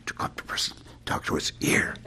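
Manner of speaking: breathy demo whisper into one ear. Shown as a demonstration. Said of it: "because you're whispering something in his ear".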